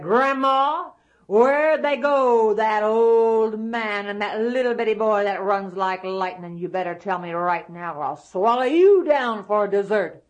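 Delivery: loud, menacing demand; shouting giant. Acted. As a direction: bellow a threat at Grandma. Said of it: "you don't need to shout so".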